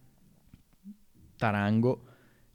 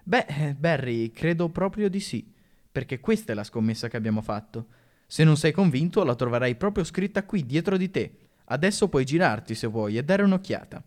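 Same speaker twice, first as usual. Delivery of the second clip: gentle. Acted. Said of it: "sorrise, gentile".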